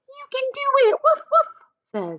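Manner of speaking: very high playful puppy voice; high squeaky dog cheering. Acted. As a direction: cheer like an excited little dog. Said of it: "says Oliver".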